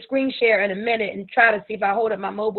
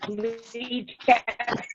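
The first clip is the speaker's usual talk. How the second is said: glitchy robotic call audio; 4 dB quieter, slower than usual. Real, not acted. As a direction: voice garbled like a robot on a bad connection. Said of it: "You sound robotic".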